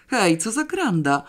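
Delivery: high, indignant outburst; shocked and offended, push it up; scandalized. A narrator's reading. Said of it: "zgorszył się krytyk teatralny".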